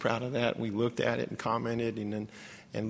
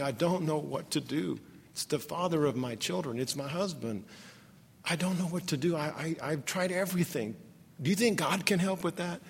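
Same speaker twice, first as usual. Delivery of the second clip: soft, slightly raised voice, imitating tearful pleading; retold sobbing; 3 semitones higher, 5 dB quieter than usual. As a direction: plead gently, with only a touch of the sob. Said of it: "by that time she's sobbing".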